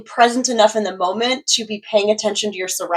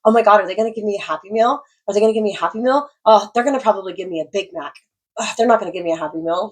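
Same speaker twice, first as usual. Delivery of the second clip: anxious worrying; faster than usual. Retold or imitated. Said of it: "questioning, wondering".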